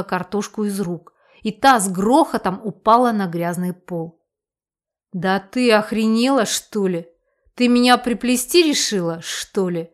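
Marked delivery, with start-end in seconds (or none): 5.1-9.9 menacing growl. Acted. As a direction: growl it out as an accusation. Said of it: "Грозно зарычала она".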